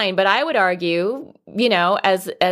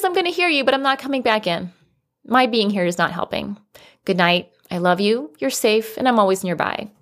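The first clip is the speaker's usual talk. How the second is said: reassuring boundary; 2 semitones higher than usual. Shown as a demonstration. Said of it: "The boundary is".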